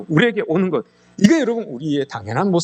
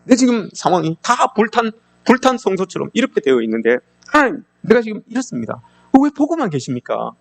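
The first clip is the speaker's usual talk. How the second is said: lamenting sigh; 6 semitones higher than usual. Acted. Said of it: "하나님께 고백해 탄식하는 거예요".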